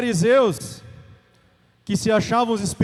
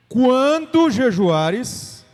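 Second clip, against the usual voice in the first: "Quando jejuares" stretched very slowly and louder; emphatic slow reading; 5 dB louder, much slower than usual. Shown as a demonstration. Preacher reading scripture aloud, slow and emphatic. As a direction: draw out "Quando jejuares" to drive the point home. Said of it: "Vocês entenderam o verbo?".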